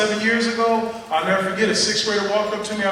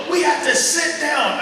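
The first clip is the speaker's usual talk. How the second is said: mock upset kid; 6 semitones higher, slower than usual. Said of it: "He started to yell".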